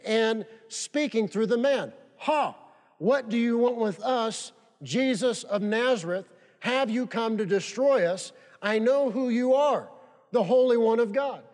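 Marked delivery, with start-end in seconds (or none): 2.2-11.4 demon voice. Acted. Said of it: "the devil inside the man using the man to speak".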